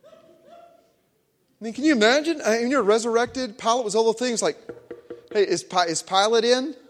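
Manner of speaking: high squeaky laughing joke. Real, not acted. Preacher to congregation, laughing at the Pilate joke. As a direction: crack up at your own joke. Joking Jesus visits Pilate.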